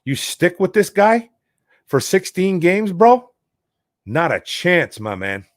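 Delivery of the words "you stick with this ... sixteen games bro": higher and slow, disbelief rising to a yelp on bro; you can't be serious, drawn out; incredulous. Real, not acted. Incredulous at sticking with coach.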